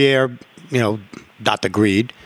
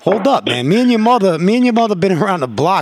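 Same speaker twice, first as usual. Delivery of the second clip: a hint of a stern dad, pitch lifting; lightly acted scolding; 4 semitones higher than usual. Dad retelling his talk to his kids, mildly scolding. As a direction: replay setting the kids straight.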